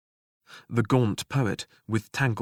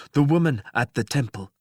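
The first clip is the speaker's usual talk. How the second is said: lightly voiced god, cool; 3 semitones higher, 5 dB louder than usual. A narrator's reading. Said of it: "There was no heat in the statement".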